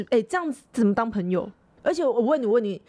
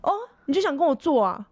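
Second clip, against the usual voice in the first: mock furious retort; 3 semitones higher than usual. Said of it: "口天就很暴怒".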